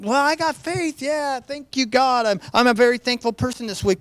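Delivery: lightly mock a complacent believer; smug comfortable Christian. Preacher mocks comfortable American Christians, lightly smug. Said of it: "we, we can".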